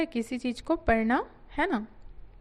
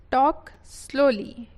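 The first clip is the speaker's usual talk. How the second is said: slow, slightly louder reading; 4 dB louder, slower than usual. Shown as a demonstration. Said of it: "teacher reads the phrase".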